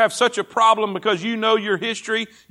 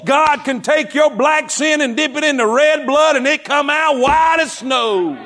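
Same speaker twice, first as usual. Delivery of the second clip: driving, raised-voice pulpit delivery; impassioned preaching; 3 semitones higher than usual. Real, not acted. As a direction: preach it hard, building to the last phrase. Preaches at full force.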